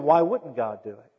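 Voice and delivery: confident rhetorical question leaning on "wouldn't"; expectant attitude. Acted. Preacher models childlike faith for the congregation, expectant. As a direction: ask it as if the answer is obvious. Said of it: "we ought to have the attitude of".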